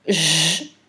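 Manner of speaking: J as a long, held "jjj"; isolated sound. Shown as a demonstration. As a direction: draw out J like the start of girafe. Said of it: "le son J de girafe".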